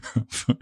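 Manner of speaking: short quiet giggle at a funny name; stifled giggle. Real, not acted. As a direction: try not to laugh. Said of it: "Sorry, the name is really funny".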